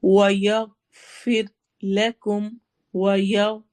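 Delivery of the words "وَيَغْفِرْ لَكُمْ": وَيَغْفِرْ with a thick غ and a thin ر; heavy ghain, light ra. Shown as a demonstration. Teacher reciting وَيَغْفِرْ for the class, slow. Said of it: "غائن موٹا ہے".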